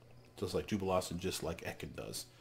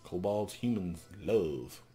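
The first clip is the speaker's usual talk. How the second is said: loud, halting kobold words; a hint of an old kobold; broken-speech kobold; 4 dB louder, much slower than usual. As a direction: push each word out like an old creature. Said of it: "he continues to stare".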